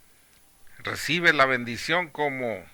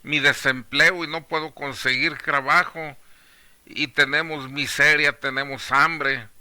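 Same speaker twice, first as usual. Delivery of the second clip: questioning God; 4 semitones higher, 5 dB louder than usual. Acted. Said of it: "sin cuestionar a Dios".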